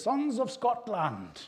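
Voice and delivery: hammed-up rallying battle cry, high and loud; William Wallace. Preacher quoting the Braveheart film to his congregation, high drawn-out battle cry. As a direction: call it out slowly like a film hero to troops. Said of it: "William Wallace Braveheart film, when he says".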